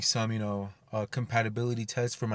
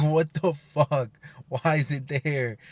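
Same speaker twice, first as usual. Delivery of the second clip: stunned outrage; 3 semitones higher, 3 dB louder, slower than usual. Retold or imitated. Discovering a new compatibility problem.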